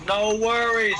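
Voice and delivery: a playful Chicago tough-guy take; mock Chicago accent. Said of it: "he sounds like he's from Chicago".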